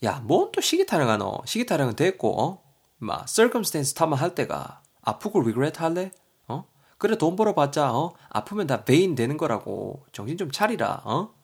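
a loud, scolding dialect rant; scolding friend. Acted. Friend scolding Woosik about his excuses, loud and pushy. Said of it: "대거이가".

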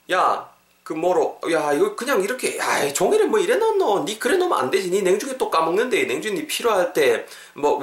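high-pitched dialect nagging; acted nagging scolding. Scolding a friend who leaves papers lying around, exasperated nagging. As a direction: play an exasperated friend telling someone off.

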